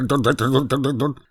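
teeth-chattering dr dr dr, lightly voiced; a mild mock chatter of teeth. A narrator's reading. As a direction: chatter the syllables with fright. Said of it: "zuby mu drkotaly dr".

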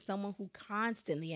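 "constantly" emphasized as the operative word; stress on CONSTANTLY. Real, not acted. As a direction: mark "constantly" as the key word. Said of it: "that's the operative word here".

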